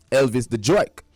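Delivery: jerk said in a New York accent. Shown as a demonstration. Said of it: "that's jerk in New York accent".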